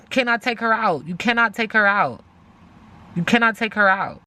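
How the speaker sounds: cannot hit at the start each time; stress on cannot. Acted. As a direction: insist on cannot. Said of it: "repeated insistence".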